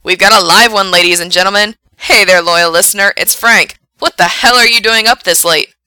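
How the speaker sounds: loud, lifted on-air welcome; excited radio DJ. A narrator's reading. Frank greets a lone late-night caller, loud and excited. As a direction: greet your one caller with big energy. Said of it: "He actually sounds excited".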